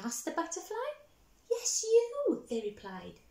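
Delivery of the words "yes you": much higher and louder; excited shout. Acted. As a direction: shout it eagerly together.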